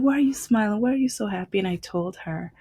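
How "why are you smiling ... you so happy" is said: curious shopkeeper. Retold or imitated. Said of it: "she was just like".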